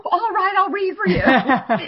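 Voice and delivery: reluctant giving in. Retold or imitated. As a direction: give in with a big put-upon sigh of a voice. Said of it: "And finally I said".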